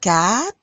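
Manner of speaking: "Quatre" like "cat" plus a light R; R at the end. Shown as a demonstration. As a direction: finish "Quatre" on a small throaty R. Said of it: "a little bit of an R at the end".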